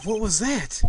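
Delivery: lightly acted lawyer and judge voices; voicing the game's courtroom cast; courtroom characters voiced. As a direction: read each character's line with a bit of drama.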